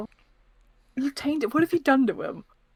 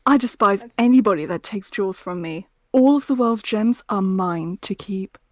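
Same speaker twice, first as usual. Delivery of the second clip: Rouge quote; 3 semitones lower, 3 dB louder than usual. Shown as a demonstration. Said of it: "what's another one".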